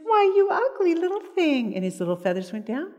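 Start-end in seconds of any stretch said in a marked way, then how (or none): 0.0-1.7 high, sharp mock insult to a bird; mother scolding the blue jay in a high put-down. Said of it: "And then she said".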